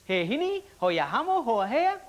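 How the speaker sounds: mild mock shout in made-up Japanese-sounding words with a Geordie lilt. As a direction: call across a garage in fake Japanese, Geordie style. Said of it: "this Geordie shout over to this Japanese mechanic".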